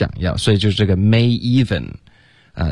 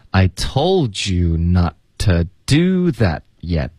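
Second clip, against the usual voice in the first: slow, phrase by phrase, final t of "that" and "yet" dropped; measured teaching read-out, "not to" run together; slow linked model; much slower than usual. Shown as a demonstration. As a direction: draw it out for learners, linking "told you". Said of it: "That的t省略".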